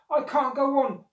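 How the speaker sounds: high, loud cry of exhaustion; panted plea. A narrator's reading. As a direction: call out at the end of your strength. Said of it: "he panted".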